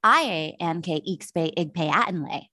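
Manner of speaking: slow, deliberate Pig Latin-style syllables; coded carny speak. Shown as a demonstration. Speaker showing off what she can do, slow carny speak. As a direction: sound out each coded syllable slowly. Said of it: "But you know what I can do?".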